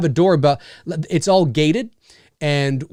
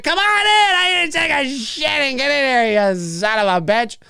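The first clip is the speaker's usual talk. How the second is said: much higher, frantic welcome; manic high host; 9 semitones higher than usual. Pretend. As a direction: yell it out, unhinged. Homeowner wildly welcoming.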